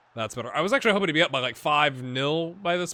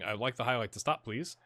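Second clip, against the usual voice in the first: mock-polite plea to the game, building; insistent repeated request. Real, not acted. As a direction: repeat it, pushing harder every time. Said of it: "I don't like how this highlight's continuing".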